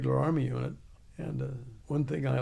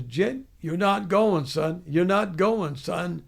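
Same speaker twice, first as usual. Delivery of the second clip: sergeant's refusal; 3 semitones higher, 5 dB louder, slower than usual. Retold or imitated. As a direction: drill sergeant laying down the law. Sergeant denies him the race.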